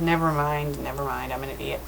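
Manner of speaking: very low, hushed retreat; sheepish self-reproach. Real, not acted. Reader admitting they misread it, shrinking quiet and low. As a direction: sink down into a soft, embarrassed aside.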